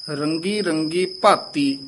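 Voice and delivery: slow phrase halting after "ਭਾਤੀ"; brief halt demo. Shown as a demonstration. Teacher marking the short halt, deliberate phrasing. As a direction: draw out "ਰੰਗੀ ਰੰਗੀ ਭਾਤੀ" and stop briefly. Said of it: "ਇੱਥੇ ਠਮਕ".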